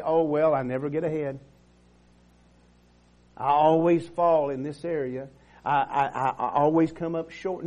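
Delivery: a light mocking whine of self-pity, laughing; mock defeatism. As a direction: parody the defeated believer. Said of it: "if I agree with the devil".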